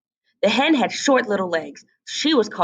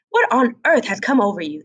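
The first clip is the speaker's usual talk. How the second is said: hen voice; 3 semitones higher than usual. Acted. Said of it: "the hen cried".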